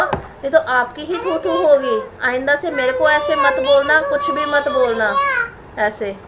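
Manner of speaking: tearful warning. Real, not acted. Warning relatives, voice breaking.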